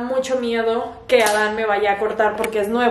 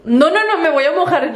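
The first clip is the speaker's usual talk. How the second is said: alarmed loud protest; 4 semitones higher, 4 dB louder than usual. Real, not acted. Water about to wet her.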